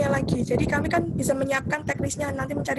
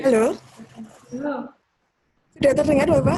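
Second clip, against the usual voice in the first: calling out loudly; 7 dB louder, faster than usual. Real, not acted. Checking if heard on call.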